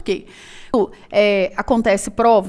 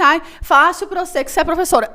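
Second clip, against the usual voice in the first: whiny student; 5 semitones higher, faster than usual. Retold or imitated. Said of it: "Aí você vai falar assim".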